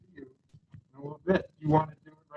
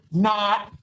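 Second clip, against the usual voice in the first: laughing; 5 semitones higher, 5 dB louder than usual. Real, not acted. Laughs, retracting the joke.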